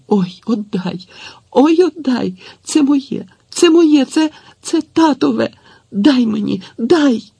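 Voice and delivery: high, loud desperate begging; the boy on his knees begging Tetiana, high and loud; frightened pleading. A narrator's reading. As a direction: beg as if your life depends on it. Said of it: "злякано, з жагучою мольбою забурмотів".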